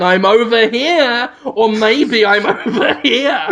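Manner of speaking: slow teasing sing-song call; mock taunting call. The villain taunts the hero from the crowd, slow and teasing. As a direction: taunt him lazily from the crowd.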